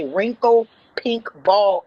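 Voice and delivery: "wrinkle pink ball" slowed, each word spaced out; coached cussing. Shown as a demonstration. Coaching the old lady to cuss, "wrinkle pink ball" said slow and deliberate. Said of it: "No, you got to say".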